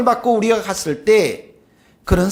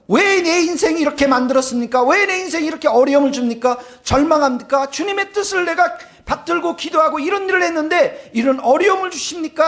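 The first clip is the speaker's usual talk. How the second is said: mock complaint; 5 semitones higher than usual. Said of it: "라고 원망하고 불평한".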